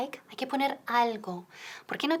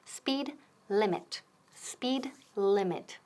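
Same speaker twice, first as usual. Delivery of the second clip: slow model phrase; slower than usual. Shown as a demonstration. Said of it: "son dos palabras".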